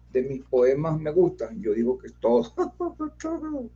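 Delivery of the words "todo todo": laughing. Real, not acted. Laughs mid-answer about his poems.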